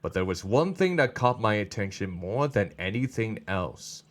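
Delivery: measured, descriptive audiobook read; understated storytelling, easing down at phrase ends; story narration. A narrator's reading. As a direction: paint the scene evenly. Reads the story aloud.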